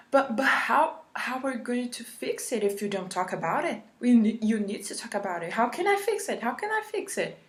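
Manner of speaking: mock desperate therapist. Mimicking her therapist begging to fix things, hammed-up whine. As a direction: whine it like a helpless counsellor begging. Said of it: "He sounded like".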